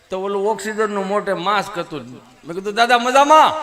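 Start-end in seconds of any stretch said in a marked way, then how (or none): 2.7-3.5 put-on cheerful shout to the old man; loud greeting. Comedian loudly greets the grandpa on an oxygen mask. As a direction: call out high and loud.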